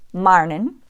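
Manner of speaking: "marnin" with a wide ah before r; Irish or sound. Shown as a demonstration. Teacher showing the Irish vowel in morning. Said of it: "it widens to an R sound".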